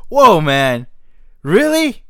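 shocked disbelief. Retold or imitated. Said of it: "my friend who goes".

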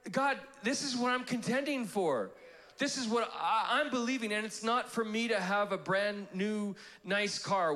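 intentional, specific. Acted. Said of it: "intentional, specific".

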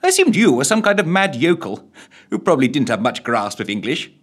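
high, loud upper-class lady; plummy voice. Acted. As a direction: sound refined and amused. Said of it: "in rather pleasing plummy tones".

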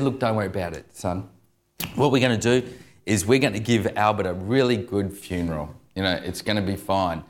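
put-on gently smooth it over for an upset child; soothing dad. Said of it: "he was trying to smooth things over".

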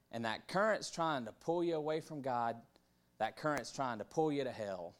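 lightly put-on preacher voice; a touch of mock preaching; good preacher voice. Speaker imitates preachers warning about the current, lightly preachy. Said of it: "get my, my good preacher voice".

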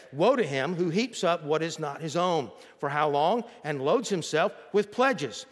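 measured, emphatic scripture reading. Acted. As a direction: read the verse out to the congregation with weight. Reads scripture aloud.

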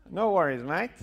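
loud, high Australian accent. Shown as a demonstration. Speaker demonstrating for the crowd, put-on Australian accent. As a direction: toss it off in broad Australian. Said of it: "I can do some Australian".

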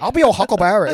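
put-on laughing, lightly accented Huckleberry line; mock accent through laughter; imitating dad's Chinese accent. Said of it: "do it in a Chinese voice".

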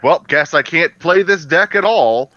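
whiny, slow sulking friend; sulky. Retold or imitated. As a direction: grumble it like a sore loser. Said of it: "they react like".

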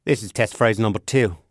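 put-on British accent slipping into Australian; lightly Australian-sounding test read; accidental Australian. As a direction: aim British, drift Australian. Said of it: "I sound Australian".

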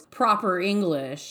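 "proper English" set apart slowly, as if in quotes; air quotes. Shown as a demonstration. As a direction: put slow audible quote marks around "proper English". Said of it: "I'm using air quotes".

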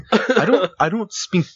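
a hint of a formal, proper customer voice; white black person voice. Customer politely corrects the vendor, lightly proper. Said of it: "your white black person voice".

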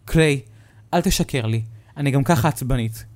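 warning him off; irritated mother. Acted. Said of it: "ויצאה מהחדר בעצבים". (אמא עצבנית)

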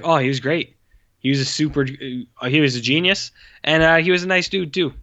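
hammy fawning praise of the director; mock gushing actor. Mocking bland actor interviews.

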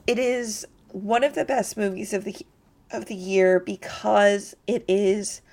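speech broken by hiccups; pausing between hiccups; hiccuping. Real, not acted. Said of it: "I know, I keep hiccuping".

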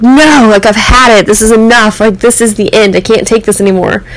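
mild mock fed-up protest; a touch of angry finality; retold angrier outburst. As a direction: insist you've had enough. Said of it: "that even made me angrier".

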